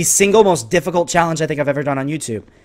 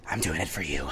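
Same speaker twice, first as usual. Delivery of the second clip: very low, soft murmur; hushed aside; 12 semitones lower, 15 dB quieter than usual. Real, not acted. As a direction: say it almost to yourself, way down low. Repeated line, first take hushed.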